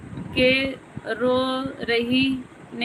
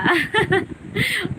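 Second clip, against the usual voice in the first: high laugh; 8 semitones higher than usual. Real, not acted. Laughs at her own wedding explanation.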